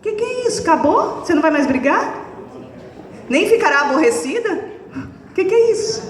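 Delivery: high, mock-bewildered child asking questions; a child's baffled voice, lightly mimicked; puzzled child. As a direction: play the child thrown off when nobody fights back. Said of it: "ela vai ficar assim".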